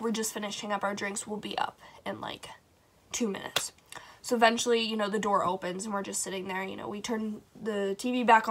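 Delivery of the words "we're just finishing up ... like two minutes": softer, casual mom murmur, off-hand; mock tipsy mom. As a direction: brush the kids off lightly. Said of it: "our moms are like".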